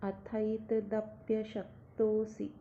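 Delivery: slow chanted Sanskrit verse; slow recitation. Shown as a demonstration. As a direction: recite it slowly, syllable by syllable. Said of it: "श्लोक देखते हैं".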